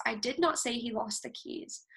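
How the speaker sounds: "not" hit hardest, the rest level; stress on NOT. Shown as a demonstration. Presenter showing students the sentence, stress on "not". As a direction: lean on the word "not" in the demo sentence. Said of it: "for example, here's the sentence".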